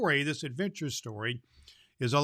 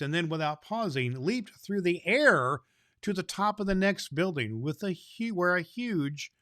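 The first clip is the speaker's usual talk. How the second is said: lively read-aloud, a bit louder than chat; storybook reading; 4 dB louder than usual. Acted. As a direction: read it to the children with wonder. Reads a Santa storybook aloud.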